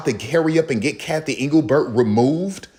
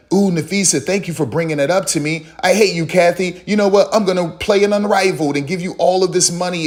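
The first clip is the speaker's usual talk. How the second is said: higher, quicker fangirl gush; mock gushing; 5 semitones higher, faster than usual. Commentator mocking Caitlin gushing to Nafisa, pitched up. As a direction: play it like an eager fan taking the bait.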